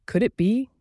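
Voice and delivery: high, breathless hopeful question; wondering hopefully. A narrator's reading. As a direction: ask it in hushed wonder, rising high. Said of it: "he wondered".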